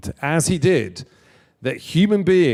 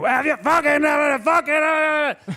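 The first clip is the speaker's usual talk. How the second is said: put-on intimidating, very high, drawn-out scream; 13 semitones higher than usual. Retelling how a man screamed before an interview, imitating someone screaming. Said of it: "And he starts screaming".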